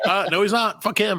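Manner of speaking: imitating someone refusing a call; mock dismissive refusal. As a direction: toss him aside with a sneer. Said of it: "you're like".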